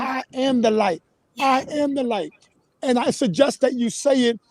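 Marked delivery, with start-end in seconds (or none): 0.0-2.3 "I am the light" with deliberate emphasis on AM; intoned mantra. Shown as a demonstration. Host shows how to say the mantra, intoned. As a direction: intone "I am the light", each word spaced. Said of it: "with an intonation".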